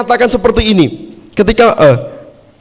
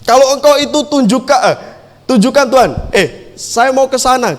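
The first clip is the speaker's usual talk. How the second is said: higher, eager retold plea in his own words; Peter's plea, paraphrased; 5 semitones higher than usual. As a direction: ask Jesus to show himself, loosely worded. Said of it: "kalau saya mau bilang seperti ini".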